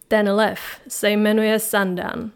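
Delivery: slow, lightly voiced huffy lion; offended protest. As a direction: correct her name-mistake with wounded pride. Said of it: "ohradilo se zvíře dotčeně". (dotčeně a pomalu se ohrazuje)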